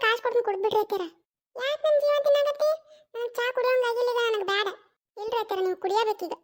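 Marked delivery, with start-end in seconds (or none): 1.6-4.7 a hint of a cranky mother-in-law, higher; exasperated old woman waving her off; irritated mother-in-law. (ಬೇಸತ್ತ ಅತ್ತೆಯ ಧ್ವನಿ)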